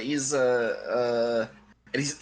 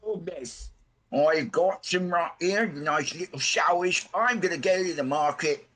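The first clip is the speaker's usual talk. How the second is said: higher, eager merchant voice; half-orc greets the customers, higher and eager; chirpy half-orc pickle seller; 5 semitones higher than usual. Acted. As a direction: pitch it up like a cheerful pickle vendor. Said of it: "He's like".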